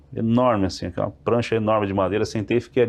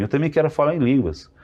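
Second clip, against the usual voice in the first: provoking; 5 semitones higher than usual. Retold or imitated. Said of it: "querendo, né, provocando".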